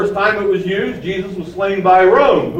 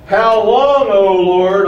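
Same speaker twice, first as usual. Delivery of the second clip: loud cry; 3 semitones higher, 5 dB louder, much slower than usual. Acted. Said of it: "cried with a loud voice".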